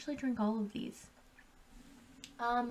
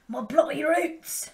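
slow, louder and higher drawn-out cry; dramatic roar; 6 semitones higher, 7 dB louder, slower than usual. Acted. Vlogger hamming up going back to her roots, roaring. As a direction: belt it out like a rock anthem. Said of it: "go back to my roots".

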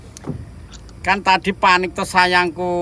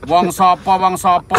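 loud; 6 dB louder than usual. Real, not acted. Loud repeated question.

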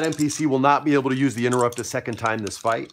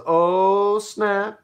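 much higher and louder, gleeful; impressed oh snap; 9 semitones higher, 5 dB louder than usual. Acted. Captain Freddy reacting to the challenge, high excited surprise. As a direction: react like a hyped friend. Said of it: "And Captain Freddy goes".

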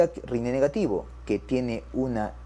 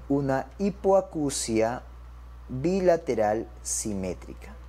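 slow, spaced-out words; dictation pace; slower than usual. Shown as a demonstration. Teacher gives doctors the diagnosis, dictation pace. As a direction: measure out each word for note-takers.

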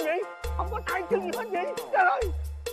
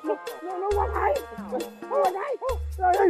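panicked; 4 dB louder than usual. Acted. Panicked tracking the floating knife.

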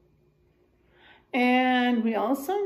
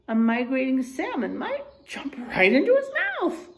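put-on reading to children. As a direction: clear storybook reading for a class. Reads picture book aloud to class.

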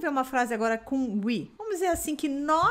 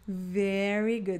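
praise; 3 semitones lower, much slower than usual. Acted. Praising students after drill.

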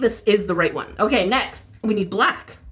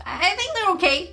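high, doubtful voice; skeptical, high-pitched; 8 semitones higher than usual. Shown as a demonstration. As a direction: sound unconvinced, pitch up high. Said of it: "I say skeptically with a high pitched voice".

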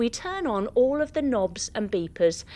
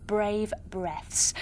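soft breathy whisper; 5 semitones lower, 6 dB quieter than usual. Acted. Breathing exercise for children.

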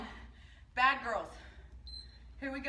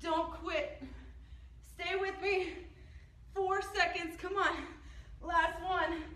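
higher, urgent encouragement; rally them through the final seconds; pushing coach; 5 semitones higher, slower than usual. Real, not acted.

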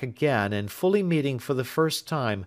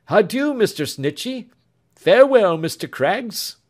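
put-on raised, tender young lover's voice; lightly voiced earnest young man; 5 semitones higher, 5 dB louder than usual. Young man tells Marian of Grace, tender and higher. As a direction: speak fondly of the absent sister. Alfred's farewells.

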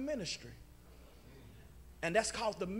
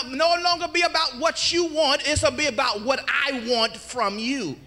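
raised, insistent pulpit voice; louder preacher driving the point home; forceful preaching; 3 semitones higher, 8 dB louder than usual. Acted. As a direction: deliver the divine charge with rising force. Preaches Jesus' words forcefully.

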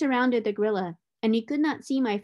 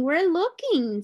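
little monkeys, slower; 8 semitones higher, 4 dB louder, slower than usual. A narrator's reading. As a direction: stretch the repeat out in a high monkey voice. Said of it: "said the six little monkeys".

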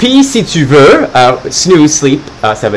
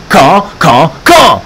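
impatient pleading; slower than usual. Acted. Carlo pestering about when the gifts come. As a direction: nag like a restless kid.

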